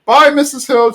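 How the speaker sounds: high-pitched sing-out farewell; Mike Soto. Retold or imitated. Mike calling to Peggy as she leaves, high call. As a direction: imitate someone calling goodbye, high. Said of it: "Mike Soto's like".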